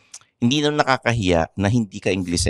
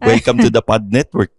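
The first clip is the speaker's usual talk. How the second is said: mock posh English; 4 dB louder than usual. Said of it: "ngayon, ano na".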